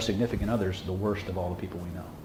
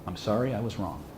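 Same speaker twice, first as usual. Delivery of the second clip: sincere apology; 6 dB quieter than usual. Shown as a demonstration. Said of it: "with the absolute highest level of sincerity say".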